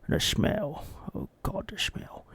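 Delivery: fading from dismay to a whisper; disgusted. Acted. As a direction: recoil at the memory.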